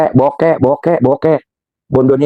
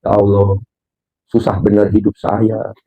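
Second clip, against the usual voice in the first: mock complaining prayer; 7 semitones lower than usual. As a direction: whine to God half in jest. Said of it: "ya tuh ngeluh".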